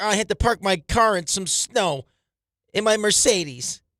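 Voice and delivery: whiny moan, high, very slow, drawn out. Teasing another speaker about being high maintenance: mocking imitation of a friend complaining. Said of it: "You're like".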